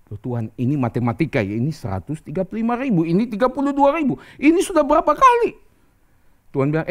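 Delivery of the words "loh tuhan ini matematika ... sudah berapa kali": starts level, climbs to a high, loud peak; exasperated acted pleading, ending very high; mounting protest. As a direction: build incredulous objection, pitch rising phrase by phrase. Gideon protests the odds to God.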